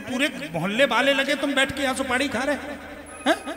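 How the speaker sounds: angry son. Retold or imitated. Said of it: "गुस्सा फूटी उसकी".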